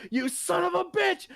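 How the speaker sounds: high-pitched indignant yell; hammed-up offended husband; mock outrage. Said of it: "he's like".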